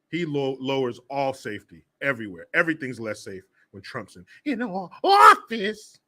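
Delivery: mock tearful whine, breaking on office; lightly voiced teary woman; mocking her whine. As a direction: mimic her weepy complaint, half-hearted. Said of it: "that's what she sounded like".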